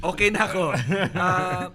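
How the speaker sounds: laughing through a quick reply. Real, not acted. Priest laughing as he tells the group he is fine, laughing.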